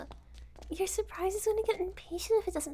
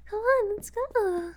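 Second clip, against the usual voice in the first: eager; 6 semitones higher, 5 dB louder, slower than usual. Acted. Eager invitation downstairs.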